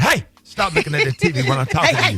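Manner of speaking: firm, loud warning to a distracted kid; a stern uncle snaps at a boy glued to the TV; stern uncle scolding. Uncle to nephew on FaceTime, sternly scolding.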